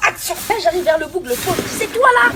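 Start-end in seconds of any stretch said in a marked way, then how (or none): 1.8-2.3 mock angry challenge. Acted audition confrontation.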